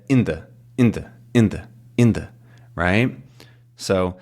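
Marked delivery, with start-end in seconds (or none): 0.1-2.3 "in the" as a tight little unit, repeated; smushed down. Shown as a demonstration. Teacher recalling weak in-between words, smushed down. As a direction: squash each "in the" together, pausing between repeats. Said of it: "end up getting really smushed down".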